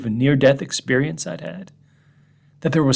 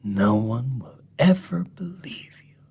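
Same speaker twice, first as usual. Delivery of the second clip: voicing dog; 4 dB quieter than usual. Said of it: "a dog who says".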